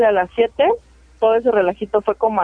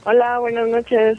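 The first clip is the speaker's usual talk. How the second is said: eco; slower than usual. Real, not acted. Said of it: "¿por qué se escucha eco?".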